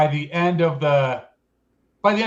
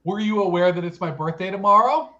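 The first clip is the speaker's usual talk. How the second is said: pointed mock interview questions; hamming it up. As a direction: ask with hammed-up, leading emphasis. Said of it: "Just hamming it up".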